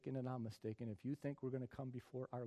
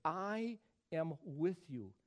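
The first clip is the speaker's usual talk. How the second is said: slow, deliberate I am with you; slow reading; 2 semitones higher, much slower than usual. Shown as a demonstration. Preacher reading the English slowly. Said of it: "notice how the English reads it".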